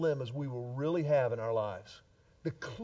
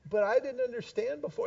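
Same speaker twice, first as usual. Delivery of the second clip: mild mock whine; 3 semitones higher, 4 dB quieter than usual. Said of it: "This is what she would try".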